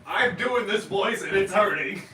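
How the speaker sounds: strained put-on voice. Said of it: "it hurts to do that voice".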